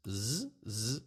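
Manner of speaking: "Z" as a held voiced buzz; plain z sound. Shown as a demonstration. Teacher contrasting letters without the birdie, buzzing z. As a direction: sustain just the z sound for "Z". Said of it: "this is Z".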